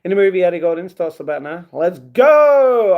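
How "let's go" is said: loud, high, excited yell of Let's go; eager shout. Acted. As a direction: belt it out like a kid who can't wait. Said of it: "asks nicely Rosie".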